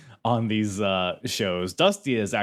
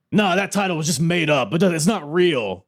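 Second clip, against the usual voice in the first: mocking promo voice; 6 semitones higher, 3 dB louder than usual. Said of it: "explicitly be like".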